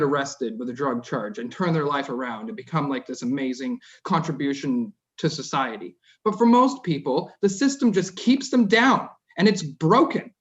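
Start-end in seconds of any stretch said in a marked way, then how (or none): 6.2-10.3 getting emotional. Real, not acted. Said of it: "I'm getting emotional about it".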